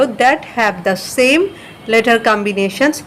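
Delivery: slow, careful dictation; slow read-aloud. Shown as a demonstration. Teacher reading the list heading to students, slowly. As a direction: read each word out slowly. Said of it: "তালিকা তৈরি করা হলো".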